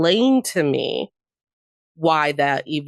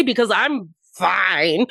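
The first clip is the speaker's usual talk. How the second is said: tearful "I'm fine"; slower than usual. Retold or imitated. Forced cheer in message to mom.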